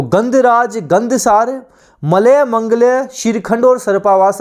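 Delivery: words spaced out for memorising; slow dictation. Shown as a demonstration. Teacher slowly dictates synonyms to students, measured pace. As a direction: read the synonyms slowly so students can note them. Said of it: "कोशिश करना साथ साथ याद करते हुए चलो".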